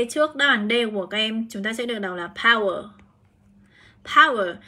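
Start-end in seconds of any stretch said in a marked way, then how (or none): 2.3-2.8 power stressed on POW, weak "er"; POW-er, falling citation form; unstressed final syllable. Shown as a demonstration. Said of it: "không nhận trọng âm". 4.0-4.5 Power hit on POW, weak falling "er"; POW-er with an unstressed ending; unstressed final syllable. Shown as a demonstration. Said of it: "không nhận trọng âm".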